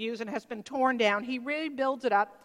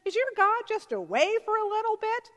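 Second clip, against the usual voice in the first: mocking taunt; 6 semitones higher than usual. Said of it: "he starts taunting them".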